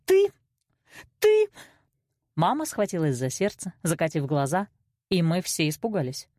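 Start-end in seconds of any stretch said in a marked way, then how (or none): 0.0-1.5 high, loud sputter; speechless outrage. A narrator's reading. Mother lost for words at daughter, outraged.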